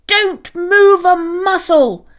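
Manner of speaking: mother dog barking at her pups; barked order. A narrator's reading. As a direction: bark it like a frightened angry mother. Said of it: "she barked".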